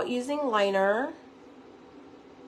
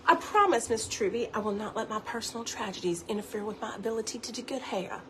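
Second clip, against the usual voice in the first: Steel Magnolias quote; 5 dB quieter, faster than usual. Retold or imitated. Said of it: "Steel Magnolia's accent".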